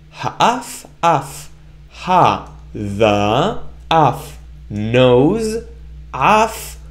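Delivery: "ha, af" repeated, then read as a whole phrase; blending syllables. Shown as a demonstration. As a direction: join the syllables into words. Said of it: "the both of the words together".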